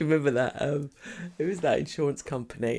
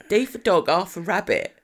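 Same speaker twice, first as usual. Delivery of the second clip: raised, loud mock-panicked spelling; 3 semitones higher, 6 dB louder than usual. Spelling the business name for the insurer, mock-panicked. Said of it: "and I panicked".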